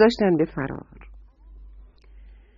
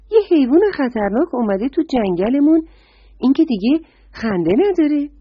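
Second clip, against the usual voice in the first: higher, urgent repeat of the warning; surprised deer; 5 semitones higher than usual. Acted. Deer insists to the frog, higher and surprised. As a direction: press the danger on him, pitched up. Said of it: "آهو خانم با تعجب پرسید".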